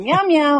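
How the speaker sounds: spoken imitation of a kitty meow; homemade cat meow. Shown as a demonstration. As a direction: do your own version of a cat's meow. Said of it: "can't make Mary's kitty cat noise".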